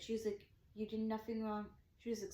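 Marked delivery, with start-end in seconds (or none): 0.7-1.7 soft, soothing quote; gently reassure, voice down; imitating a comforting cop; retold reassurance. Cop reassures upset speaker, retold.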